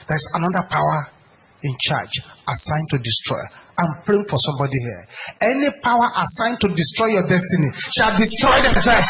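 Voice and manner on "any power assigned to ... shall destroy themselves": forceful prayer. Real, not acted. Preacher prays aloud for congregation.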